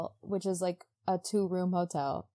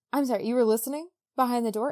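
fast, higher, louder alarmed question; mock alarmed disbelief; 4 semitones higher, 4 dB louder, faster than usual. Christine panicking that Raoul overheard, fast and alarmed. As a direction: rush it out, caught off guard.

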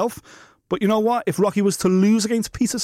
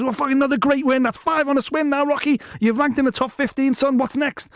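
lightly raised interviewer voice; imitating Dan Hardy; 5 semitones higher than usual. Mimicking the interviewer to the fighter, a bit higher. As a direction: play the cageside interviewer asking what's next. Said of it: "Dan Hardy says".

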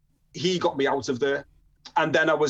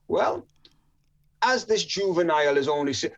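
put-on officer's speech in a rough Jamaican accent; awful Jamaican accent. Probation officer addresses the magistrate, mock Jamaican accent. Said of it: "my Jamaican accent's awful".

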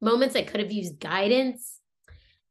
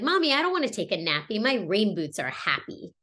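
put-on quick, pitched-up child's plea settling down; young daughter. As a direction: imitate a little girl refusing a nap. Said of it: "she looked up at me and she's like".

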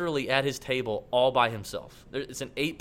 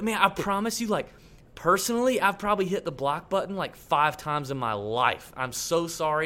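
higher-pitched, earnest retold apology; upset apology; 3 semitones higher than usual. Golfer explaining the accidental block, retold as upset and sorry. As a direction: imitate a man pleading that it was an accident. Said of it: "he got so upset".

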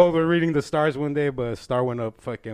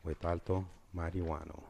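announcer voice; 5 semitones lower, 11 dB quieter than usual. Acted. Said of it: "segment announcer intro".

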